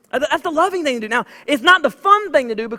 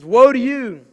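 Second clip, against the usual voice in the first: a hint of Jesus rebuking the Pharisees, firm and slow at the end; preacher voicing Jesus rebuking the Pharisees, firm. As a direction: proclaim it as a stern rebuke. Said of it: "He says".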